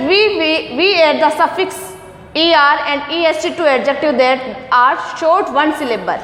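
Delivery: reading the rule out slowly, word by word; slow, careful textbook reading; slow read-aloud. Shown as a demonstration. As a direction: spell out the textbook line slowly for the class. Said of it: "teacher reads textbook line slowly".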